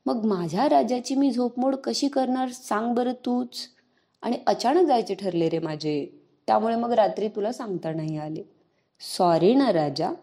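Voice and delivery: lovingly coaxing. Acted. Sister coaxing her sulking little brother, gentle and loving. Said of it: "प्रेमाने त्याला समजावत म्हणाली".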